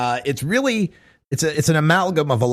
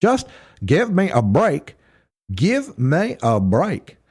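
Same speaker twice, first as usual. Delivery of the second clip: mock disgust. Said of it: "You gotta have that little disgust whenever you say marijuana".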